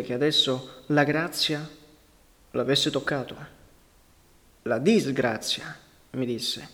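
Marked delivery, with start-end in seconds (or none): 4.6-5.8 "disgrazia" slow, with a pitch peak; pointed correction. A narrator's reading. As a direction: drag out and stress "disgrazia".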